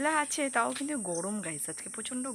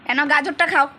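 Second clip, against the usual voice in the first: put-on much higher, much louder sing-song baby talk; 10 semitones higher, 16 dB louder than usual. Mother cheering her little daughter eating chaumin, high sing-song baby talk. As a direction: coo and cheer the toddler on. Coaxing daughter to eat carrot.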